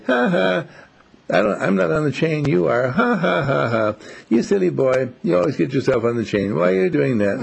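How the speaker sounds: mock the chained dog with a sneering laugh; taunting dog. Free dog Love taunts Rex on his chain, gloating. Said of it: "wanted to be intimidating".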